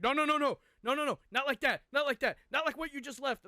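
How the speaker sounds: mock-panicked mother cutting him off fast; frantic mom. Mom frantically stops his panic.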